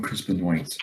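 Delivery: "Benoit" said ben-WAIT; "Benoit" misread as it is spelt; childhood mispronunciation. Retold or imitated. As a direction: say "Benoit" with a sounded t at the end. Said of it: "I used to call him".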